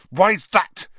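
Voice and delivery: loud, high angry retort; furious, scornful challenge; spat out. A narrator's reading. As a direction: spit the question at him. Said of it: "Harry spat".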